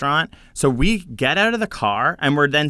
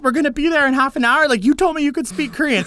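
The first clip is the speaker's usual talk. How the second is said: retold exasperation; 11 semitones higher than usual. Retold exasperated argument with friend.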